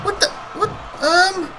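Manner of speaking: high, loud stunned disbelief; shocked. Real, not acted. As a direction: blurt it out in real shock. Shocked by naked footage.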